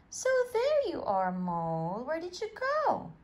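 relieved surprise. Acted. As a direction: greet a lost son with relief. Father Mole finds lost son.

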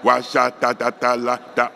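loose babbled syllables; just say whatever syllables come; spoken tongues syllables. Shown as a demonstration. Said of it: "on continue de prononcer des syllabes".

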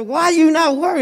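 high, frantic disbelief; panicking man. Acted. Stranded shipwrecked man panicking at his calm friend, high and frantic. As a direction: pitch it up like a man losing his nerve. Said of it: "crying and shouting and panicking".

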